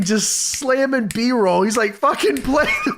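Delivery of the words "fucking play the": higher-pitched, imitating an angry wrestler; mock exasperated yell. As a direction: act out an impatient demand. Retold demand for footage.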